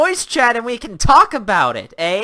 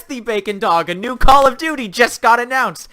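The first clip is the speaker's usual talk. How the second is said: ordinary talk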